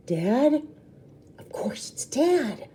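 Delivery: stunned hushed whisper; hiding child whispering on recognizing Dad. Acted. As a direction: breathe it out in disbelief.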